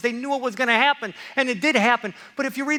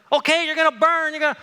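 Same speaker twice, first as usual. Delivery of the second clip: higher, louder doom refrain; mock prophetic warning; 6 semitones higher, 5 dB louder than usual. Preacher cutting back to the prophets' judgment, mock urgent.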